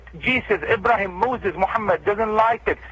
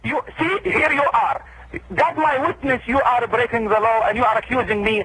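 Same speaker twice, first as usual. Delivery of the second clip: pitched up, solemn outrage, slowing on God's revenge; indignant; 3 semitones higher than usual. Real, not acted. Imam to the accusing host, indignant and pitched up.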